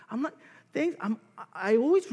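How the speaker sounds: put-on high, childish whine; a hint of a sulky kid; whiny child. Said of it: "respond like a little child".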